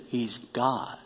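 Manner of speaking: low, soft and final; with finality. Acted. Doctor telling the pastor who Jesus is, quiet and final. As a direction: settle it quietly, no doubt left. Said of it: "he said with finality".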